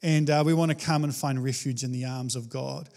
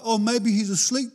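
mocking; 4 semitones higher than usual. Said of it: "Elijah's mocking them".

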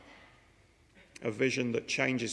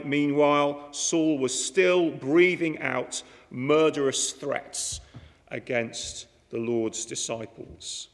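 scripture reading; 4 dB louder, slower than usual. Acted. Reading scripture verse aloud.

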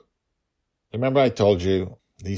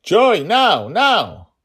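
high, loud repeated command; urgent shout; 14 dB louder, much slower than usual. A narrator's reading. Father urges daughter to fire now, loud urgent shout. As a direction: hurry her on.

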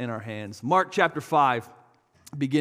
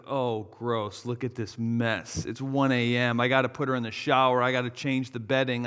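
grossed out; 4 semitones lower than usual. Retold or imitated. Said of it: "I had that face of".

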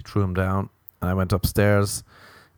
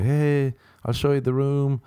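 high woman voice; 6 semitones higher than usual. Retold or imitated. Voicing the girl roommate.

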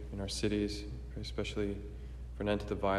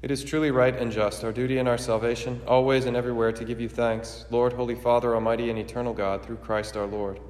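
formal, ringing liturgical proclamation; solemn preface prayer; 4 dB louder than usual. Acted.

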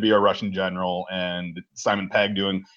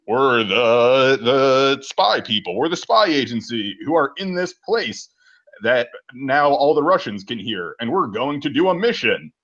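intercom voice. Retold or imitated. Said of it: "intercom voice".

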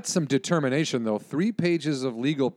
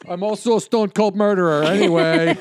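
mock confession; 6 semitones higher, 5 dB louder than usual. Joking in the guest's person.

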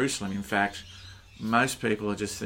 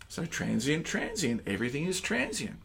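soft reflective reading; 3 semitones higher, 7 dB quieter than usual. Acted. Rereads verse with new word.

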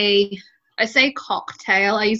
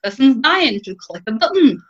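super chill; 2 semitones higher than usual. Retold or imitated. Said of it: "flipping chill".

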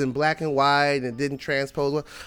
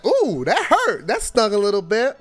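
milk the sting like it really hurt; 5 semitones higher than usual. Retold or imitated. Clutching chest after the insult.

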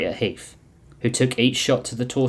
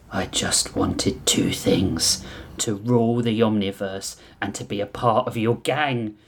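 whiny villain; slower than usual. Acted. Villain's sad plea.

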